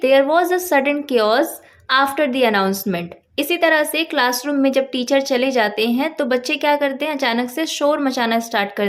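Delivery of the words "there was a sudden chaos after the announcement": slow example sentence. Shown as a demonstration. Teacher reading the example to students, slow and clear. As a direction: read slowly and clearly for learners. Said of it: "तो आप बोलेंगे".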